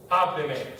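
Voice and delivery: "Hábleme" stressed on its opening syllable; stress on third-to-last syllable. Shown as a demonstration. Teacher showing why it takes an accent mark, "Hábleme" stressed on the first syllable. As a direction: put the weight on "Há" in "Hábleme". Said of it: "it's the third to last syllable".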